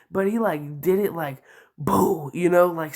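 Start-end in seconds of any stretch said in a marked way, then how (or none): 1.8-2.3 scary boo. Retold or imitated. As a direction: imitate a scare close to someone's ear. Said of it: "scary as fuck in my ear".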